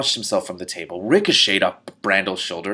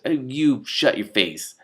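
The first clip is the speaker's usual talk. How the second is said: mock insult; 4 semitones higher, slower than usual. Real, not acted. Reader insults the bald man.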